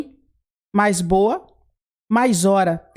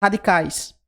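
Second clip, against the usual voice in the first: slow emphasis; slower than usual. Shown as a demonstration. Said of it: "Aqui nós vamos juntar radicais".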